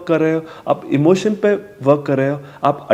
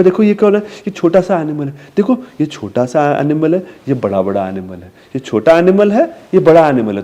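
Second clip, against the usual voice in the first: put-on contrasting for a child. Shown as a demonstration. Parent teaching small and big to a toddler, sing-song. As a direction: play small against big. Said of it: "फिर आप बताओगे".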